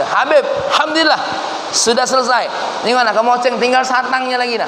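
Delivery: high, eager and pleased with himself; proud report. Retold or imitated. Villager proudly reporting to the Habib, pleased. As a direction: boast that the job is done. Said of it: "dengan bangga dia".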